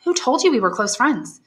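a hint of girlish warmth, greeting her lover; young woman Valentine. A narrator's reading. Valentine asks Maximilian.

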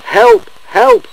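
very high, loud cry for help; despairing wail. A narrator's reading. Stuck engine with spinning wheels, wailing in despair. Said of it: "wailed Gordon despairingly".

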